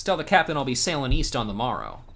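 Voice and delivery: lightly voiced seafaring captain; pirate NPC voice. Streamer voicing a pirate quest-giver, lightly acted. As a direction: read it like an old sea dog.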